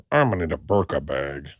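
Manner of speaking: low, soft out-of-the-side-of-the-mouth voice; impression of a woman. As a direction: talk softly from one side of the mouth. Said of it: "that does sound like a perfect impression of her".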